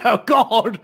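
hammed-up tearful wail; half-laughing fake sob; mock weeping. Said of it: "he starts weeping".

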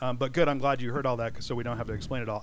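talking while chewing gum. Real, not acted. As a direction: speak around a wad of gum. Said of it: "I put gum in my mouth".

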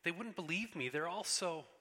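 put-on a little girl begging to be believed; pleading girl Lucy.

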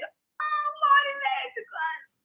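high, laughing through the words. Real, not acted. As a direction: squeal it out while cracking up. Rindo da própria piada. (dito às gargalhadas, bem agudo)

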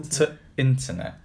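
northern "t'internet", clipped article before INTERNET; put-on northern "t'internet"; northern dialect. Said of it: "He's trying to be northern".

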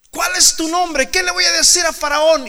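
high, loud pleading Moses; Moses asking. Retold or imitated. Moses asking God his name, loud and pleading.

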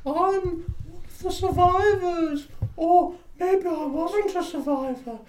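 slow, very high wailing ghost; hammed-up spooky falsetto, words drawn out. Ghost telling of being a passenger, slow high wail. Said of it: "Oh, I'm being the ghost".

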